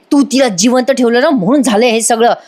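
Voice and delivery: understated acted accusation; mild retold snap. Priya blaming Rakesh for keeping her alive, mild retold snap. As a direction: blame him in a lightly mimicked snap. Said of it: "राकेशवर खसकन ओरडते बरं का".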